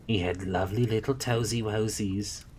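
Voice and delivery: fond, wistful memory; wistful nun recalling a baby. Acted. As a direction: remember the baby tenderly. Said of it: "said Mary Hodges wistfully".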